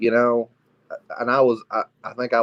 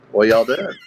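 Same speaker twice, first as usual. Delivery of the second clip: creepy voice; 5 dB louder than usual. Acted. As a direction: say it like a creepy lurker. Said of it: "that was a creepy voice".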